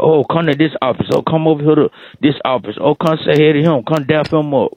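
excited coworkers. Retold or imitated. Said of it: "You got".

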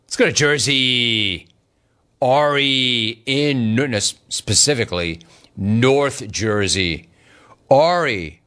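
ordinary talk

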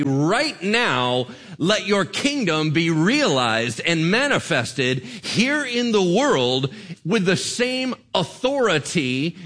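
RIGHT NOW hit hard, then each phrase driven out slowly; urgent declaration. Shown as a demonstration. Pastor showing how prayer was intended, emphatic declaration. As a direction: proclaim it, punching "Right now" and "here". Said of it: "It was intended to say".

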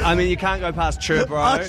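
fast, casual Kiwi slang; broad Kiwi accent. Retold or imitated. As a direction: rattle off chur bro, Kiwi style. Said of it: "replaying the clip line".

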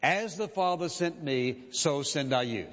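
each word weighed, slowly; solemn scripture read slowly; slow deliberate reading. Shown as a demonstration. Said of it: "Listen to what he said".

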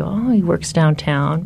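slow, vague, innocent answer; playing dumb. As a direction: act clueless and casual. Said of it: "to play stupid".

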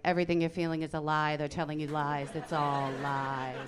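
hard, low insistence, slowing at the end; mock stern denunciation. Imitating husband to Christian daughter, sternly dismissive. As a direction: drop low and drag out the final phrase.

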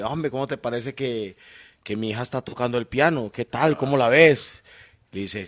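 voice giving out. Real, not acted. Comedian tells friends' piano joke to the panel, voice giving out. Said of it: "antes de que se le vaya del todo la voz".

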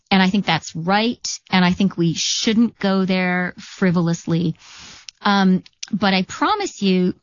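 mildly apologetic, level-pitched self-justification; retold apology in an even, understated voice; sort of apologetic. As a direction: concede the point, then earnestly explain yourself. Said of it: "sort of apologetically".

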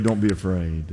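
tender hushed repeat to end the encouragement; hushed reassurance. Pretend. Daniel's repeated comfort, fading down.

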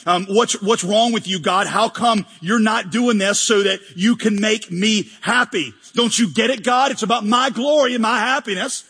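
mildly indignant complaint to God; mock angry prayer. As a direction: act out a self-centred believer taking God to task. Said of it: "We get angry. We start saying".

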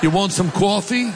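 lightly exaggerated East Coast vowels; a joking East Coast accent. Preacher adds a joke offering coffee in East Coast accent. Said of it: "Or East Coast".

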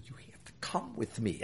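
hushed, very soft urgent aside; retold whisper. Station boss to his general manager at the ballpark, whispering. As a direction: whisper it as you act out the moment. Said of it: "I'm whispering".

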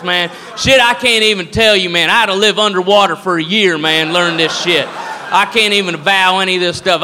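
boastful redneck spoiling for a fight; hammed-up drunk redneck threats. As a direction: puff up like a dumb bar-room brawler. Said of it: "they're fucking drunk and dumb".

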